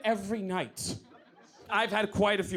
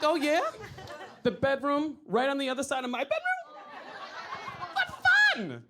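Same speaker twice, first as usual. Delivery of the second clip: sarcastic; 6 semitones higher than usual. Retold or imitated. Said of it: "I'm like".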